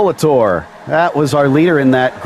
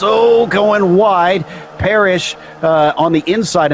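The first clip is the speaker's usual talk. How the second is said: motorsport commentator; 6 semitones higher than usual. Real, not acted. Live race commentary, car going wide.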